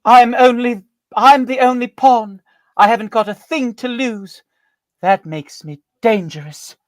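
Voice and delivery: high, loud, slow menacing stage voice; dramatic performance. Pretend. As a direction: deliver it like a hammy villainess. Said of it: "and the performance is".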